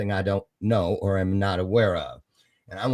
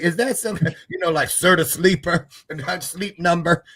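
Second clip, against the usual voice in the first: laughing mock confusion; 5 semitones higher than usual. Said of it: "I was like".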